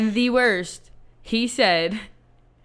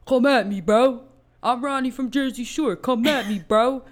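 mock Jersey Shore taunt; 4 semitones higher than usual. Sister mocking the guy with a Jersey Shore taunt. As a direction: puff up and dare him like Ronnie.

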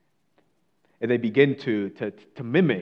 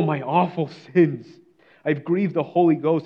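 louder and higher, urgent; desperate pleading; 3 semitones higher, 4 dB louder than usual. Retold or imitated. Mister Thorpe to his mocking friends, louder desperate pleading. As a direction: plead as one who cannot rest.

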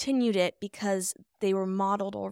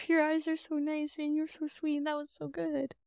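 laughing, flirty; 7 semitones higher than usual. Real, not acted.

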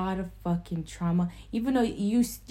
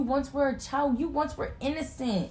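high, loud and earnest; fired-up sincere plea; impassioned; 7 semitones higher, 4 dB louder than usual. Real, not acted. Impassioned speech about childhood innocence.

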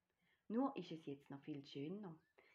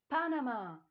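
PANAMA cried out high and loud; joyful shout; 7 semitones higher, 11 dB louder than usual. A narrator's reading. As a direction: shout PANAMA as a jubilant discovery. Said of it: "tanzen vor Freude". („Panama“ laut und freudig gejubelt)

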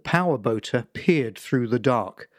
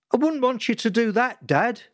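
placating son; 9 semitones higher than usual. Acted. Son replying to father.

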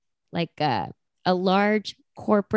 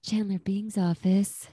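secretary voice; 5 dB quieter than usual. Retold or imitated. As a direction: answer like a hushed spa receptionist. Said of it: "she kinda sounded like that".

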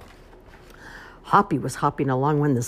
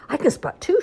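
shouted; 14 semitones higher, 6 dB louder than usual. Acted. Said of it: "shouted Poppy".

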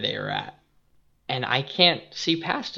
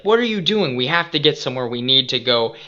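angry yelling; 4 dB louder, faster than usual. Retold or imitated. Balaam yelling at his stopped donkey, angry. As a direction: yell at the stubborn donkey. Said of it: "now he's very angry and is like".

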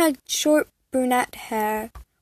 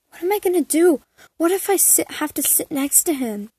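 higher anxious inner thought; nervous panic; 5 semitones higher than usual. Acted.

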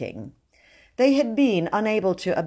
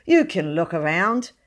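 gracious; 3 dB louder than usual. Acted. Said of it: "he said graciously".

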